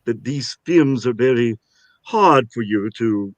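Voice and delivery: light Russian accent, half whispered; a taste of a Russian accent. Shown as a demonstration. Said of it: "I can speak just a little bit of Russian like this".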